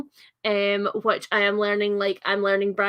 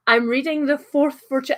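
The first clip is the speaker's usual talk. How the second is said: Scottish accent; 3 semitones higher than usual. Shown as a demonstration. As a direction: own Scottish accent, unsoftened. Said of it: "That's hard in a Scottish accent".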